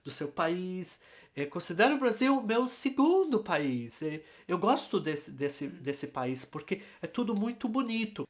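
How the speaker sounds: lightly voiced gringo with careful, effortful Portuguese; gringo praising Brazil. Gringo telling Dorota he loves Brazil, in careful learner's Portuguese. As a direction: play a foreigner politely admiring the country. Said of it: "imagina o gringo chegando pra Dorota".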